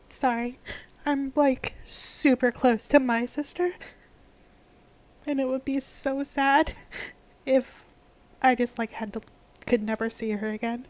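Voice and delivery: upset and apologetic; real sadness, near tears. Real, not acted. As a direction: hold back tears while explaining. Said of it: "I cry really easily".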